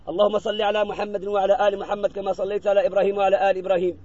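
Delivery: recited prayer. Acted. Imam opening a prayer for the deceased, recited prayer. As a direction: recite the opening praises on a level, running tone. Opens the supplication.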